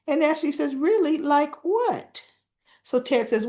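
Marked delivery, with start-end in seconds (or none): 0.8-2.2 high-pitched nosy questions; pry eagerly, pitch lifted; acted eager prying. Ashley prying Ted for gossip, eager and nosy.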